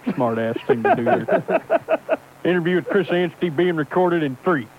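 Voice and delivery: lightly put-on folksy trucker voice; Microphone Johnson character. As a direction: play it as a gruff hardliner caller. Holds a put-on character throughout.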